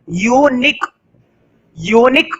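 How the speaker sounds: यूनिक said carefully as "yoo-nik", opening on a clear "yoo"; demonstrated pronunciation. Shown as a demonstration. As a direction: sound out यूनिक for learners, "yoo" then "nik". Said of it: "ध्यान से सुनना". (यूनिक को साफ़ "यू-निक" पढ़कर सुनाना)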